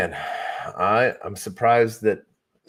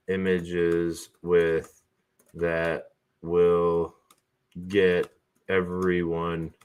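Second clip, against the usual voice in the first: slow dictation; much slower than usual. Acted. Dictating a prompt to assistant.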